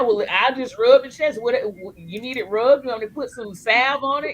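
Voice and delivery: lightly hammed-up pestering questions; playful retold offer. Retelling playful offer to aunt.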